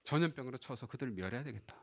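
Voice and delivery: low, hushed pronouncement; God's judgment. Retold or imitated. God sentencing the unbelieving people, low quiet pronouncement. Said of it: "하나님께서 이렇게 말씀하시는 겁니다".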